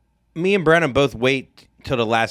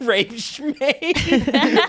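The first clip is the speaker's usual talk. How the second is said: surfer dude; 12 semitones higher than usual. Retold or imitated. Echoing surfer bit.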